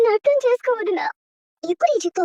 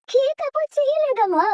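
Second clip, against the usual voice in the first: higher, slow plea of innocence; tearful pleading; 5 semitones higher than usual. Acted. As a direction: beg your mother to believe you. Daughter pleads with mother.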